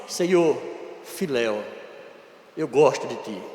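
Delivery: soft, low, ashamed murmur; ashamed Peter. Acted. Peter answering Jesus without courage, soft and ashamed. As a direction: mumble it like a disciple who lost his nerve. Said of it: "Pedro não tem coragem".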